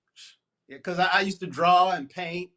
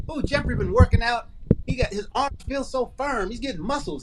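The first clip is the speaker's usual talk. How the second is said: bragging mom voice; 5 semitones higher than usual. Retold or imitated. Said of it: "you gotta embellish and say".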